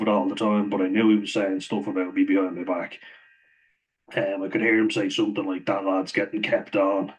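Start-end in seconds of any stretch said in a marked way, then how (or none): 5.7-7.1 slow, mildly ironic mock of the manager. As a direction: lightly sneer out the gossip, slowly. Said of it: "kind of in an ironic way".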